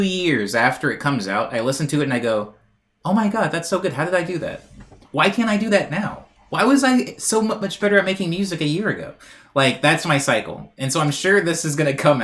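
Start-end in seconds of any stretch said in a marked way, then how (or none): 3.0-9.1 higher-pitched disbelief at your own work; mock-envious astonishment; acted amazement. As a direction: marvel at it, pitched up. Acts amazement hearing own old music.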